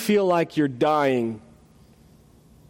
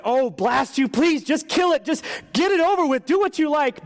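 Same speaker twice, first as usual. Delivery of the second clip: mock bellow; 8 semitones higher than usual. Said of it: "bellowed the ghost".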